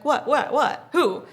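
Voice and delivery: loud, high repeated yelps; reenacted excited fan; frantic curiosity. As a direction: fire off each word, desperate to see. Frantically looking for who it is.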